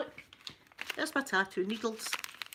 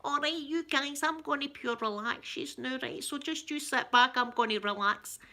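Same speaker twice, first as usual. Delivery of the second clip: slow, higher-pitched Ned voice; Ned ASMR; 4 semitones higher than usual. Acted. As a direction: parody a Ned hosting relaxation videos. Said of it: "I should actually do Ned A S M R".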